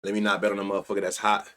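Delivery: quick, mumbled mock of a timid bettor; a light parody of a bettor who dodges hot hitters; mocking a cautious bettor. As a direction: rattle it off like a scared gambler. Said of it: "I swear, that's how it sound".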